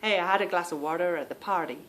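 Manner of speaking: non-American trying American "water" and "party"; attempted American accent. Demonstrating the local sound, hammed American accent. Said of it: "I'm not American".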